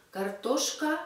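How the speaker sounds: Картошка with the plain -а ending; dictionary form. Shown as a demonstration. Teacher gives the base form Картошка before changing it. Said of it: "change ending into u".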